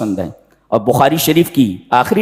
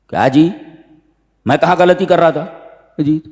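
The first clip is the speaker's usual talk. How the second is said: higher, defensive protest; mock bickering; 4 semitones higher than usual. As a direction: brothers blaming one another. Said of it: "एक दूसरे को मलामत करने लगे".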